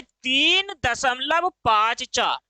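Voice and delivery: slow, each digit read separately. Shown as a demonstration. Teacher shows students how to read a decimal, slowly digit by digit. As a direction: draw out तीन दशमलव पाँच चार one number at a time. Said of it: "इसको कैसे पढ़ोगे आप".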